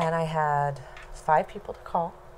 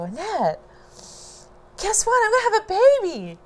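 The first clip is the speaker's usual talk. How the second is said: much higher and faster, bubbling over; excited announcement; 5 dB louder than usual. Retold or imitated. Telling her sister on the phone, high, fast and giddy. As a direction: rush the news out giddily.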